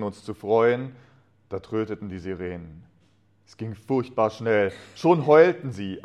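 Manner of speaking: measured, expressive reading of a wartime memory; story narration. A narrator's reading. Man retelling wartime Christmas to listeners, story narration.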